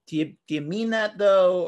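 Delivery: put-on New Jersey accent with a sarcastic lilt; sarcastic New Jersey twang. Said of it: "the New Jersey twang makes it a little".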